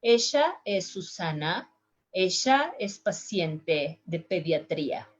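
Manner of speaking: Argentine Ella, said "esha"; southern South American accent with sh for ll. Shown as a demonstration. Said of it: "the accent that couple of countries".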